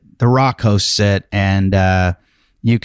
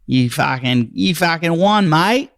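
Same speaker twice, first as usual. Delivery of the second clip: higher-pitched, hyped-up cheer for the winner; excited congratulations; 7 semitones higher than usual. Real, not acted. Host congratulating Dominic Collins on winning, excited cheer. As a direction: crow it like you're thrilled for him.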